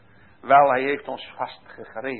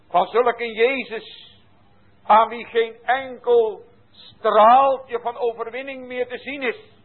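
slow, high, swelling preacher voice; preaching; 8 semitones higher than usual. Acted. Preacher mourning the Saviour to the congregation, slow and lifted. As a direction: lift the phrase slowly in awe.

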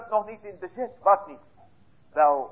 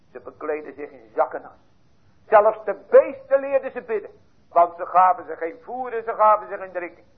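usual speaking voice

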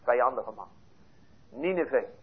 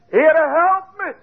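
high, loud and slow cry of "help me"; 10 semitones higher, 5 dB louder, much slower than usual. Shown as a demonstration. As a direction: call out to the Lord as if drowning. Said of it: "Dan roep je".

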